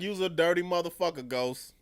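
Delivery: retold telling-off with some heat; indignant scolding. Viewer telling off Ghost on the screen, indignant. Retelling being pissed off at Ghost.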